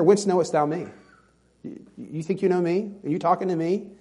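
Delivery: mildly cynical challenge; Nathanael. Acted. Nathanael doubting Jesus knows him, mildly cynical. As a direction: push back with a touch of suspicion. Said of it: "can you hear that in his voice".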